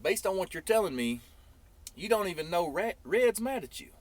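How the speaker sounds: retold buddy bursting out with the news; excited friend. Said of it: "He said".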